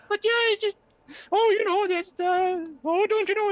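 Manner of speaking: high squeaky Canadian accent, Mickey Mouse style. Shown as a demonstration. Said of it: "you sounded like a Canadian Mickey Mouse".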